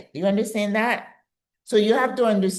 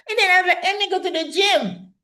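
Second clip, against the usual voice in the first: excited; faster than usual. Real, not acted. Excited about her own therapy.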